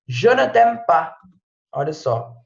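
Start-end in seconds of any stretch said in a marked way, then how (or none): 0.1-1.1 "Je ne t'aime pas" slowly in French; slow French example. Shown as a demonstration. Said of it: "eu não te amo". ("Je ne t'aime pas" devagar, em francês)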